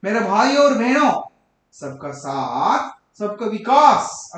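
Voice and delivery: forceful political orator with swinging pitch; Narendra Modi speech impression. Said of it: "Narendra Modi ಭಾಷಣ ಕೇಳ್ರಿ".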